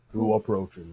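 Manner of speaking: deep, slow booming voice; Wizard of Oz voice. Acted. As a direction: laat de woorden langzaam en diep galmen. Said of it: "this deep booming voice just say".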